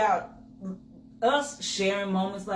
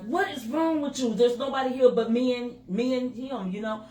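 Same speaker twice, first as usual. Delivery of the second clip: higher-pitched mock self-scolding; fussing at myself; 5 semitones higher than usual. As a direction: scold yourself, exasperated. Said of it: "I was fussing at myself".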